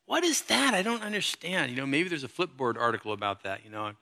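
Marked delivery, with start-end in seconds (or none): 0.0-1.7 high, baffled what; mock bewildered reader; confused reader. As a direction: pitch jumps up in confusion. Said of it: "you read it and you go".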